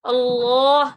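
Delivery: अल्लाह with tongue on the upper palate; full heavy अल्लाह; heavy Allah. Shown as a demonstration. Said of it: "जुबान है ऊपर वाले तालू से लगाएं".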